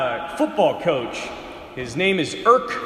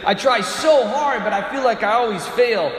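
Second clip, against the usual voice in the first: raised, pleading voice; a hint of a frustrated confessor; imitating a penitent; 4 semitones higher than usual. Quoting penitents confessing to priests.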